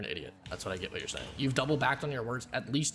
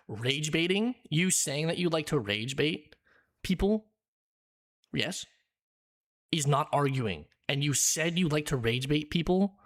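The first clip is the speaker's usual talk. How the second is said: louder heated rant, hammering each point; angry rant; 4 dB louder than usual. Real, not acted. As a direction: shout him down in fury. Heated argument with opponent.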